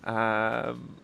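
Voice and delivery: stuffy, nasal voice from allergies. Real, not acted. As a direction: talk through a blocked, nasal nose. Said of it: "My nasal voice is not my usual tone".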